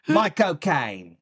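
slow, lightly voiced Michael Caine; a loose stab at Michael Caine; Michael Caine impression. Friend asks for his Michael Caine, slow mock voice. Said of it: "Why don't we hear it now".

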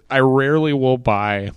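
throat catches on the words; frog voice. Real, not acted. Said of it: "That's an amazing voice".

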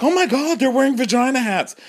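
high shocked gasp of a voice; mock shock. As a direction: play it scandalised and high. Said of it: "People are like".

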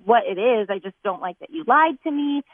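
mildly heated retold protest; imitating her own argument, lightly indignant; retold arguing. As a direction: push the complaint up in pitch. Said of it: "we were arguing about it".

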